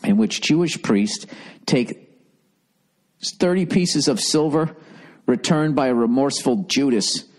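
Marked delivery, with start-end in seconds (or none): none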